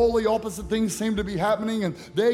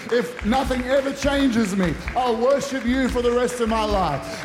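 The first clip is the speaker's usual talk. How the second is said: preaching; 3 semitones higher than usual. Acted. Preaching builds.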